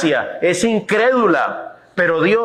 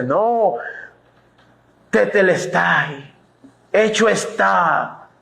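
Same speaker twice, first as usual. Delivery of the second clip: solemn declaration; 3 semitones higher, slower than usual. Acted. God declaring it finished.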